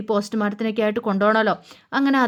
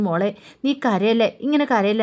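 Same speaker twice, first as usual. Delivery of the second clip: gentle comforting. Retold or imitated. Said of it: "എന്നൊക്കെ പറഞ്ഞ് ആശ്വസിപ്പിക്കുകയാണ്".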